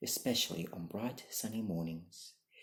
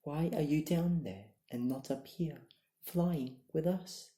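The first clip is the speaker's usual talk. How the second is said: higher, louder call from the sky; 6 semitones higher, 5 dB louder than usual. A narrator's reading. Eagle calls down to his brother, higher and louder. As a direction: call down from above. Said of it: "called out to him".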